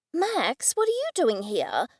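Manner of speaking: surprised exclamation, Max said high; startled cry to the bird; exclaiming. Acted. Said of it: "I exclaimed".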